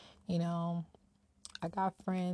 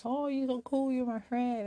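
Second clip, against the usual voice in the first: mock eager friendliness; 6 semitones higher than usual. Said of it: "I meet people, like I said".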